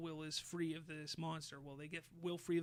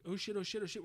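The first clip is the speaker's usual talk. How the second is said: higher mock alarm; panicked; 4 semitones higher, faster than usual. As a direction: imitate a frantic scramble to escape. Acting out kids fleeing monsters.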